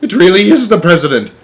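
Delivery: awed. A narrator's reading. Awed realization.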